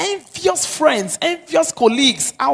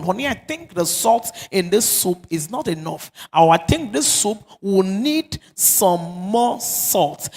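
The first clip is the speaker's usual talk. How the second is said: gentle loving tone; 3 semitones lower than usual. Shown as a demonstration. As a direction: ease it in kindly, no blame. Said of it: "that kind of tone".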